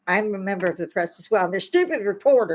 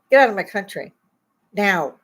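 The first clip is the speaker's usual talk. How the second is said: angry command; 5 dB louder than usual. Real, not acted. Angry rant at protesters.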